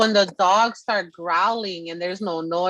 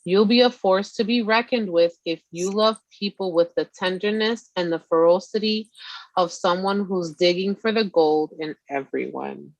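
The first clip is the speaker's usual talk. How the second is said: reading a card. Acted. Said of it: "It says".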